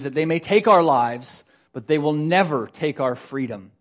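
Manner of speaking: rally the army like a warrior chief; rallying battle speech. Retold or imitated. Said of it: "And he says".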